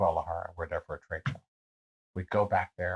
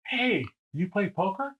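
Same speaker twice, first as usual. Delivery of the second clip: high, slow call-out; imitated bar stranger; 9 semitones higher, 4 dB quieter, slower than usual. Bald stranger calls across the bar, slow high hail. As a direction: call over slowly in a raised pitch.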